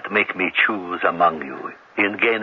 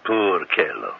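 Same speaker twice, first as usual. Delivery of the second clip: sarcastic; 4 semitones lower, 4 dB quieter, slower than usual. Acted. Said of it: "I don't deserve your sarcasm".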